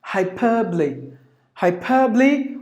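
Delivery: "hyperbole" as hai-PER-blee; three-syllable "hyperbole", stress on PER; schwa left out. Shown as a demonstration. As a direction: drop the buh in "hyperbole". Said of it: "it is optional".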